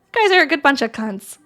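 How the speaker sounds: a hint of an Australian accent. Streamer ribbing the chat, light Australian accent. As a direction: lightly try on an Aussie accent. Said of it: "If I say it in an Australian accent".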